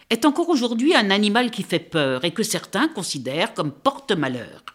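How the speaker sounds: put-on lively read-aloud for children, voices the birds; story narration. A narrator's reading. Critic reading the book to young listeners, animated storytelling. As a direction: tell the tale with animated expression.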